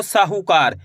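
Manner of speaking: "साहूकार" with a long सा; stretched vowel. Shown as a demonstration. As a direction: draw out the आ at the start of "साहूकार". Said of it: "सा का उच्चारण खींच को रहा है".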